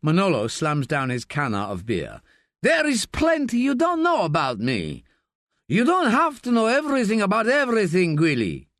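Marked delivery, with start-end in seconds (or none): 2.6-8.7 high, loud angry retort; angry outburst. Acted. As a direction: snap back in anger. Manolo slams beer, angry.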